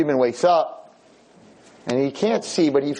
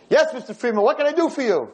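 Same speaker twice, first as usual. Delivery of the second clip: nurse voice; 10 semitones higher than usual. Retold or imitated. Nurse voiced, answering the bell.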